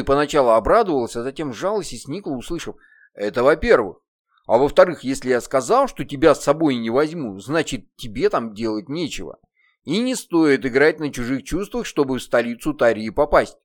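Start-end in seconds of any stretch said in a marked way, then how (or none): 3.1-13.6 demon voice. Acted. Demon scolds the child.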